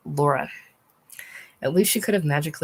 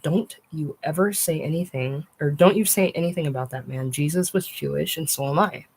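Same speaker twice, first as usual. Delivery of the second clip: stern. Retold or imitated. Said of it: "in a tight, stern voice".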